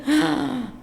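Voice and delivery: ¡Ah! sorprendida, más aguda; surprised ah. Real, not acted. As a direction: cae en cuenta de golpe, más aguda. Realizes it was that ovary. (sorpresa al entender)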